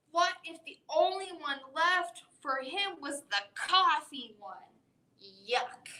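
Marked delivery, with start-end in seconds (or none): 5.5-5.9 yuck. Acted. Monster disgust at coffee one.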